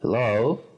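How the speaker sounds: Hello with the stress on "lo"; Hello, second syllable stressed and rising. Shown as a demonstration. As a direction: lean on the "lo" of Hello. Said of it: "El acento en la segunda sílaba".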